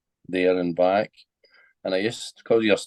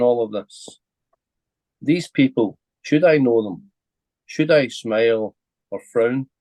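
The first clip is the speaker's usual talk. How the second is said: measured recital in short phrases with pauses; poem reading; 2 semitones higher than usual. Real, not acted. Poet reads his train poem for a podcast host, measured recital. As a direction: read your own verse aloud, deliberately, letting each image land.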